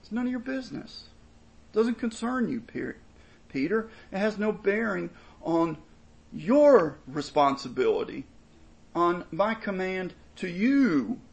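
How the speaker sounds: a firm teacher setting Peter straight; Jesus rebuking. Acted. Jesus telling Peter to mind his own business, brisk rebuke. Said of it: "Essentially, Jesus tells him".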